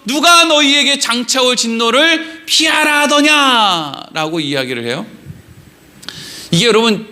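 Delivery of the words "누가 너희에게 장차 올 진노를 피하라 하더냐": drawn-out acted prophet's rebuke; preacher acting out an indignant challenge; cursing rebuke. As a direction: cry it out slowly, as if scolding a crowd. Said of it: "막 욕을 하면서".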